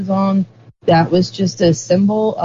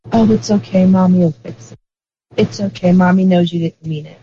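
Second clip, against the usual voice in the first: raised pitch, a touch of cooing comfort; mock soothing mom; 2 semitones higher than usual. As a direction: imitate a mother forgiving her kids. Acting a mother soothing apologetic kids.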